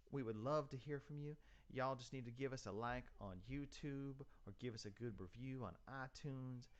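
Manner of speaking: a folksy Texan host voice; Texas accent. Pretend. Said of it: "I can do my best Texas accent".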